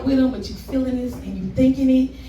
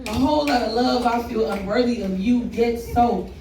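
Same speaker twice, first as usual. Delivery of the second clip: spoken word poem. Acted. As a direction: open mic love poem. Recites a love poem on stage.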